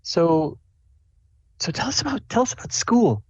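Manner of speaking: high, hesitant mom voice rising in pitch; inquiring mom. Acted. Mom asks Azuri about school, inquiring mom voice. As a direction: ease into a question, high-pitched. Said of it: "your mom's like".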